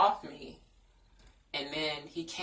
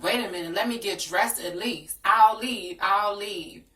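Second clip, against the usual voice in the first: high, loud frantic pleading; raised desperate cry; upset pleading; 5 semitones higher, 9 dB louder than usual. Retold or imitated. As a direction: beg to just leave, voice rising. Retold own pleading.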